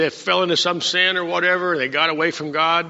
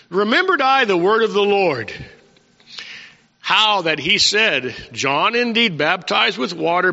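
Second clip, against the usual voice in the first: raised voice, reading the verse out to the church; scripture reading. Acted. Preacher reads the verse aloud to his congregation, in a raised voice. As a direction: proclaim the verse, lifting it up.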